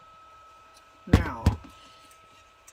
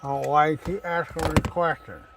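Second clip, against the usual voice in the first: loud, higher sarcastic complaint; sarcastic annoyance; 5 semitones higher, 8 dB louder than usual. Real, not acted. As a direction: needle the questioner mockingly. Annoyed at questions, flashlight in mouth.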